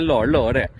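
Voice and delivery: لاہور clipped to one syllable, "lor"; لاہور squeezed into "lor", h dropped; Punjabi Lahore. Shown as a demonstration. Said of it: "Punjabi میں ہم کہتے ہیں".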